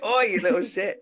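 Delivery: high, loud, laughing "oi"; laughing mock scold. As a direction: tell the dog off while cracking up. Scolding dog, joking.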